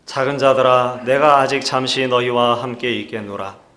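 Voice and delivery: measured, even-toned Bible reading; scripture reading. Acted. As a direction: read the verses out formally for the congregation. Leads responsive scripture reading. (또박또박 성경을 봉독하는 어조)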